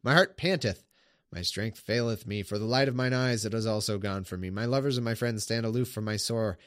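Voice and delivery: measured solemn Bible reading; scripture reading. Acted. Streamer reading the psalm aloud to viewers, solemn. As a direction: read the psalm like a sermon text.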